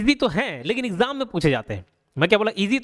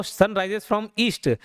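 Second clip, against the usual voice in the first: sun rises from east, stretched word by word; very slow dictation; much slower than usual. Shown as a demonstration. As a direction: dictate it slowly for notes. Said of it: "ये east कर लेना इसको". (बहुत धीरे लिखवाया गया वाक्य)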